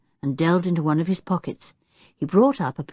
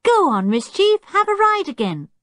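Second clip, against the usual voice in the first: high, excited encouragement; eager urging; 14 semitones higher, 4 dB louder than usual. A narrator's reading. George urges the monkey onto the chimpanzee, excitedly. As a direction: egg a pet on eagerly.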